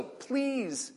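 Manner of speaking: slow, gentle "Please take your son"; slow request. Shown as a demonstration. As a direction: ask it slowly, not a command. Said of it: "fits the context a little better".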